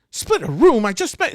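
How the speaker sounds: very high, loud outburst; shocked indignation. Acted. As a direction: balk loudly at the suggestion. Elf balks at sharing room.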